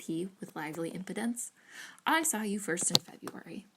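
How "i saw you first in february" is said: 1 declaring aloud. Acted. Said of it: "Let everybody on the hill hear me".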